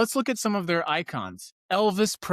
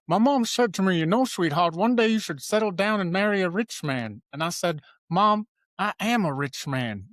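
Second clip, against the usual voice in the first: a modest stab at a singer's voice, not far from his own; best diva voice; 3 semitones higher than usual. Pretend. Host imitating a singer's famous quote for viewers, lightly voiced singer impression. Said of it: "I'm gonna do my best diva voice".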